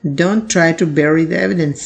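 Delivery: slow, careful example sentence read for learners; measured classroom reading of a model sentence. Shown as a demonstration. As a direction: read each word slowly and clearly. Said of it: "sentence की तरफ देखिए".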